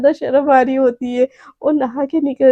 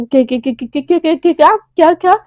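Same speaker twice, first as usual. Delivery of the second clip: flustered stammer. Acted. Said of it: "एकदम हड़बड़ा जाती है".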